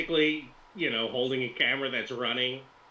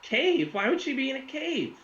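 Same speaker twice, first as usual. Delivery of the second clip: put-on very high, baffled Russian accent; high-pitched incredulous influencer; puzzled Russian woman; 13 semitones higher than usual. Russian character questions the cave story.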